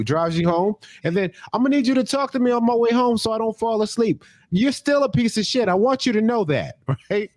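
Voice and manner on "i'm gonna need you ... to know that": high, scolding mock rant; mock grumbling friend. Friend scolds you on the ride home in a high mock grumble. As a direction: pretend to be the friend still grumbling on the drive home. Friend voiced, still ranting.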